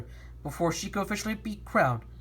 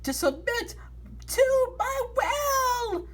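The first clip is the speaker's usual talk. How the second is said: slow villain rising to laughter; 13 semitones higher, slower than usual. Acted. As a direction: menace them slowly. Villain demands submission.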